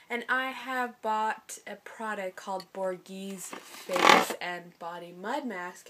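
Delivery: hoarse, sick voice; a raspy voice worn down by a cold; raspy whisper. Real, not acted. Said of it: "Excuse my voice. I'm kinda sick right now".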